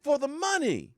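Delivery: high, whiny jilted-lover wail; mock heartbroken. Fan wailing at the player who left for money, mock heartbroken. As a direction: ham up the betrayed sweetheart.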